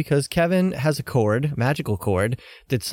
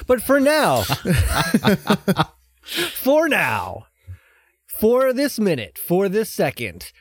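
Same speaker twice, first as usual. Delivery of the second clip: announcer hype. Acted. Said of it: "hyping the segment".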